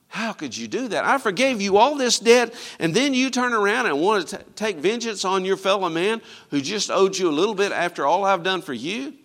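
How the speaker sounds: enraged, rising loud rebuke; angry master. Acted. Preacher voicing the furious master at his servant, loud rebuke. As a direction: boil over at the ungrateful servant. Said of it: "the Lord was angry".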